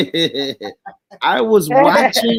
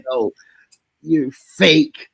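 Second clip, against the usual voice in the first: mock rampage; 3 dB louder, slower than usual. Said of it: "go on a rampage".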